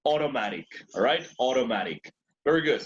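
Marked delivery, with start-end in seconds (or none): 0.1-0.7 AUTOMATIC opening on a single O sound. Shown as a demonstration. Teacher corrects students' AUTOMATIC, first vowel a plain O. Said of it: "sino como O las dos". 1.4-2.1 AUTOMATIC with AU said as one O. Shown as a demonstration. Teacher repeats AUTOMATIC for the class with an O. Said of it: "sino como O las dos".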